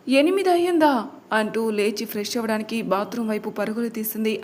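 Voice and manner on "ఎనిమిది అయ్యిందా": startled, higher-pitched question; flustered alarm. A narrator's reading. Daughter waking late and seeing the time, flustered alarm. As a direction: blurt it out in a mild panic. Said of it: "కంగారుగా".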